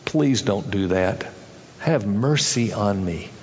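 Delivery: low, slow humble plea; begging for mercy. Acted. Debtor humbly begging the king for mercy in a low voice.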